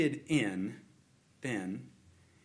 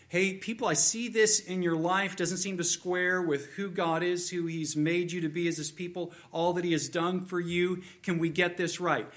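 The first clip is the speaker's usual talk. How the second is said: lightly acted prophet, pitched up; prophet confronting the people; 4 semitones higher than usual. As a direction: appeal to a whole nation, insistently. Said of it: "Prophets have come to the people".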